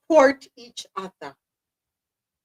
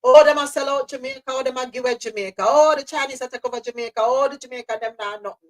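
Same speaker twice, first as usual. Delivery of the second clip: mock Jamaican complaining; faster than usual. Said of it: "you hear people complaining".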